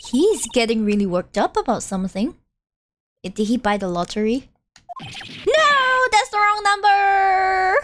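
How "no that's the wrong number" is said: dismayed outcry. Acted. Lottery loss outburst.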